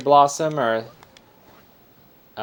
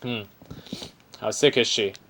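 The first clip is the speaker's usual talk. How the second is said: Aussie bear voice. Acted. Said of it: "This is an Aussie bear".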